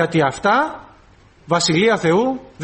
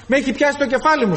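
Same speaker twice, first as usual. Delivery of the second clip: higher, whiny complaint of a headache; complaining flesh; 6 semitones higher, faster than usual. Acted. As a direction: moan like someone sulking in church. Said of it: "σου λέει η σάρκα".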